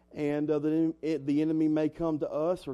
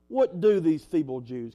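louder, punched-up scornful question; sarcastic; 6 dB louder than usual. Acted. Preacher voices the enemy scoffing at the builders, sarcastic. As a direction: lean on the scorn, mock them. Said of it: "the sarcasm in his voice".

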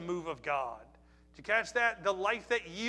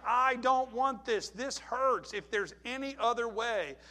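raised, emphatic pleading, slow at first; acted anguished plea; 5 semitones higher, 4 dB louder, slower than usual. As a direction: voice Jesus begging for a way out. Acting out Jesus' anguished plea.

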